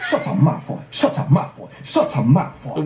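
lightly mimicked British schoolboy; Harry Potter, British accent. Shown as a demonstration. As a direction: play at a British film line. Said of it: "Harry Potter".

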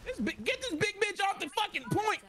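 angry yell. Real, not acted. Yelling at enemy on point.

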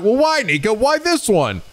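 high-pitched imitated viewer question; mock high querying voice. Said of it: "you might be then like".

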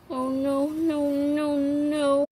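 a hint of playful fear; mock dread. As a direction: play it rising alarm. Spider coming closer.

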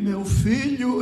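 lightly imitated trembling sick woman; drawn-out, faraway call from a sickbed; frail, distant old woman. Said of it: "com a voz bem longe".

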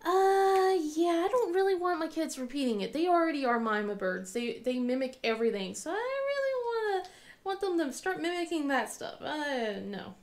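mock yes, then drop to no; sarcastic mom. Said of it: "I'm like".

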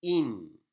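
"in" held on its final n; "in" as one closed, drawn-out syllable; stopping on the nun. Shown as a demonstration. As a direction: rest on the n at the end of "in". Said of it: "nunun üzerinde duracağımız için".

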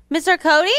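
quick, rising, unsure call; asking the empty stage where he is; puzzled question. Acted. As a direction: wonder where he went. Looking for him, no answer.

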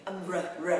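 R sound demonstrated with lips pushed out; R with pouted lips. Shown as a demonstration. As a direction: pout the lips for an isolated "R". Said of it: "Cũng nhớ chu miệng mình ra nhé".

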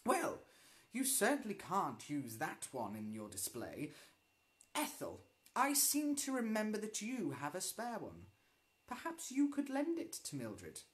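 stern teacher. Acted. Teacher ordering a pupil.

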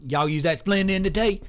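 a hint of a slow Southern yokel; Southern drawl. Shown as a demonstration. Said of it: "Maybe he talks like this".

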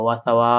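last ওয়া stretched very long; four-alif elongation. Shown as a demonstration. Teacher demonstrates the long madd sign, final ওয়া held long. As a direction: draw out the final vowel of ওয়া for four beats. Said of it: "চার আলিফ টেনে পড়বো".

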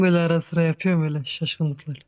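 loud faked male voice; forced deep voice. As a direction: push the voice down like a man. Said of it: "Ben de kız olup erkek sesi çıkarıyorum".

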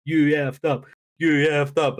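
lightly imitated crowd chant; mock crowd shout. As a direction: call it out like a jeering crowd. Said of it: "the crowd shouting".

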